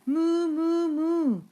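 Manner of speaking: high, loud moos; duck mooing. A narrator's reading. The duck lures the thieves into the pond, loud moos. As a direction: moo like a cow to lure them. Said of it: "the duck on the pond said".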